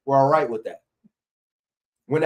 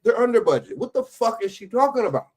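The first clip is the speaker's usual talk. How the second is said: high, exasperated disbelief; incredulous outburst; 9 semitones higher than usual. Real, not acted. Streamer reacting to a politician's clip, high incredulous outburst. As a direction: raise it up in stunned disbelief at her.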